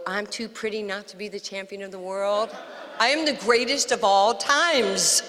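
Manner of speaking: lightly imitated boxing champ's boast; Muhammad Ali. Champ boasting on TV to a watching child, mock swagger. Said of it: "That was Muhammad Ali".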